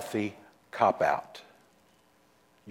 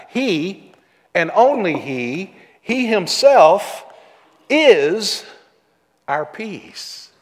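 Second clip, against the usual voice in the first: louder and higher on himself, slow; building emphasis; 6 semitones higher, 6 dB louder, slower than usual. Shown as a demonstration. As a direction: hammer "he himself" home. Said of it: "There's an emphasis there".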